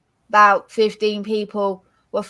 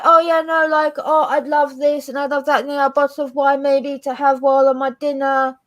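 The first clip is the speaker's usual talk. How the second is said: eager accepting; 3 semitones higher than usual. Retold or imitated. Friend being offered thanks for a favour, mock-eager. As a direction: play a friend gladly helping themselves.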